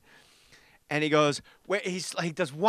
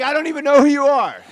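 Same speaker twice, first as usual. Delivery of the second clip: louder and higher repeat of the put-down; scoffing mock disbelief, raised voice; punched-up mock dismissal; 9 semitones higher, 10 dB louder than usual. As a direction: hit it harder the second time, mocking.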